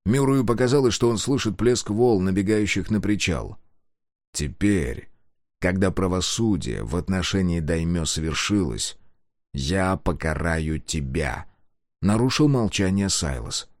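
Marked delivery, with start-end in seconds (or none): 4.3-11.5 menacing villain. Acted. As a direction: deliver it as a cold sentence. Villain threatens Murray.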